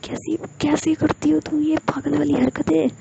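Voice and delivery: high, incredulous scolding; exasperated scolding. Acted. Ruhi scolds Jiya over the crazy punishment, high pitched. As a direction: scold a friend's madness in disbelief.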